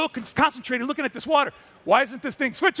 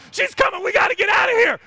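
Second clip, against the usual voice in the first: lightly voiced alarmed dogs, higher; panicked dogs; 9 semitones higher, 3 dB louder than usual. Dogs spotting the lioness crossing, higher alarmed voice. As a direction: dogs squealing a warning, higher. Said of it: "And the dogs are going".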